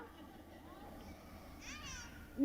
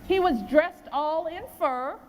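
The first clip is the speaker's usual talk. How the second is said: measured storybook reading of the poem; poem read to children. A narrator's reading.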